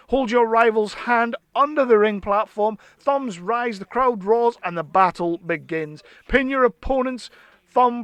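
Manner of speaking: hyped product promo read. Acted. Reading the playset blurb to viewers, hyped ad read. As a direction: sell it like a toy commercial.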